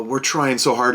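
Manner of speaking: lightly mocking company excuse; a touch of fake sincerity; company excuse, only lightly mocked; mild mock apology. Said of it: "And they're like".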